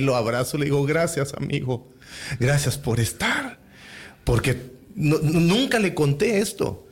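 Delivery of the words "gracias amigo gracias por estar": slow, tender thanks; understated, unhurried gratitude; retold heartfelt thanks. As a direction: thank a friend slowly, moved. Retold tearful thanks to a friend.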